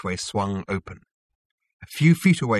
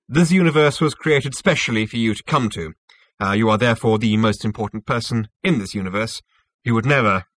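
lightly voiced self-assured official; smug Zarniwoop, explaining; 6 dB louder than usual. Zarniwoop explains his synthetic universe to Zaphod, lightly smug. Character dialogue in narration.

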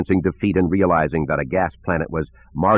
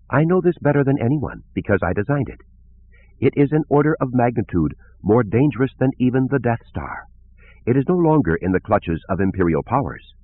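lightly voiced gentle scientist; musical female voice; 4 semitones higher than usual. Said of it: "Her musical voice".

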